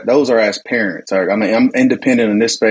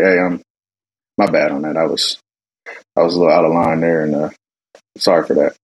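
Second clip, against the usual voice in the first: apologetic dad; 5 semitones lower, faster than usual. Retold or imitated. Dad's retold next-day apology.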